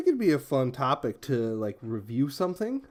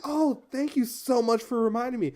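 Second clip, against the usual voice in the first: imitating the professor; 10 semitones higher than usual. Professor voiced in a story.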